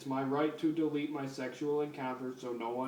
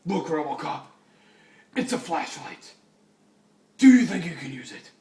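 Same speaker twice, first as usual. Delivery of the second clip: loud Batman line; 9 dB louder than usual. Acted. Reading Batman's dialogue aloud.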